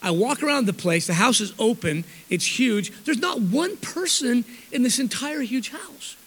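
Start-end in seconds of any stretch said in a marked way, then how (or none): 3.0-6.1 hushed disbelief. Retold or imitated. Empty mansion, mock awe.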